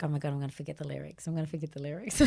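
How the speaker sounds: fast, mock-panicked muttered thought; panicked inner voice. Singer's thoughts before auditioning, mock panic. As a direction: race through it, tipping into a laugh. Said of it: "in my mind, I'm like".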